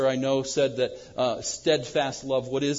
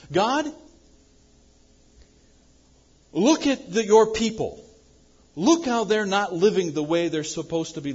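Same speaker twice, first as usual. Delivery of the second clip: high, loud urgent plea; an impassioned prophet crying out, louder and higher; pleading cry to God; 4 semitones higher, 4 dB louder than usual. Retold or imitated. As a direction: beg God to look at his people. Preacher voices Habakkuk's complaint.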